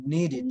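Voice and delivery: "নিডেড" modelled as a single word; correct pronunciation. Shown as a demonstration. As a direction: say "নিডেড" clearly for pupils to repeat. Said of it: "নিডেড হবে".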